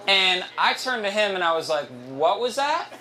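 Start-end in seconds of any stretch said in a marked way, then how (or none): 2.1-2.9 mock-alarmed question, sweeping up high at the end; disbelieving rise on THAT; retold shut-up question. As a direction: ask it as a warning to stop. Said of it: "as in, Shut the fuck up".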